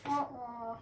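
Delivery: sad trombone "wah-wah"; mouthed comic trombone sting; trombone imitation. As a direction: voice a falling trombone for a letdown. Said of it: "play the trombone".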